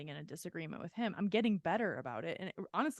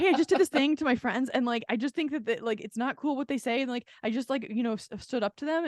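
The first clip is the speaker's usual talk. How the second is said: excited laughing; 5 semitones higher, 9 dB louder, faster than usual. Retold or imitated. Laughing retelling to stranger.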